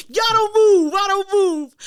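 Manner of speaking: loud, high hollered refrain; retold shout. Re-enacting a standoff at the fight, shouted. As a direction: holler it out like standing your ground.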